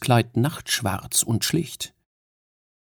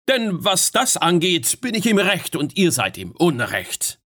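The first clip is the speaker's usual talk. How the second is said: much higher, raised urgent call; urgent appeal; 7 semitones higher than usual. Acted. Fionn urges Queen Mab to stop, raised and urgent. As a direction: hold her back before swords move. Fionn argues his right.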